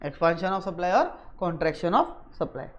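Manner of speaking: soft, low read-back in connected phrases; measured, low and soft. Real, not acted. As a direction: read the written heading back quietly. Reads back what was written.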